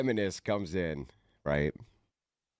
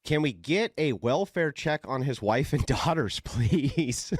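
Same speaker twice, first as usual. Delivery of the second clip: slightly higher mock-concerned lady; mocked online commenter; 4 semitones higher than usual. Lady asking for a welfare check, lightly mocked. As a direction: read it out as a pleading busybody, lightly put on. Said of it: "This lady says".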